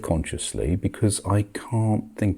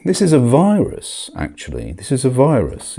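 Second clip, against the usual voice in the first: emphatic warning; 7 semitones higher, 6 dB louder than usual. Real, not acted.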